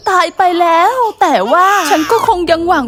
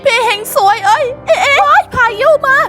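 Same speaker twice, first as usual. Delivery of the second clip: higher, crying out in panic as the storm hits; panicked crying father; 4 semitones higher than usual. Acted. Father watching his child swept into the sea, crying out higher in panic. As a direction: sob and shout for someone to save the child. Husband losing kids in storm.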